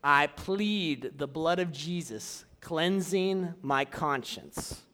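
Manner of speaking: slow, deliberate declared prayer; measured demonstration of a spoken prayer. Shown as a demonstration. Teacher shows how he would pray against the devil, slow declaration. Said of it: "then I would pray out loud".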